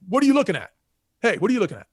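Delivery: hollered high and loud at a stranger; guy on the porch yells at the stranger looking at his house; retold yell. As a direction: call it out like a guy on the porch yelling at a passer-by. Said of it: "one of the guys yells at me".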